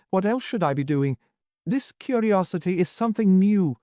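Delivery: lightly voiced mocking old man; sneering old lord. Husband sneering at his wife's curiosity, lightly voiced. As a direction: needle her with sour suspicion.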